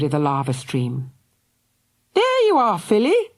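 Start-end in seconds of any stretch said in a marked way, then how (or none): 2.1-3.3 relieved call. A narrator's reading. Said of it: "said Missus Love".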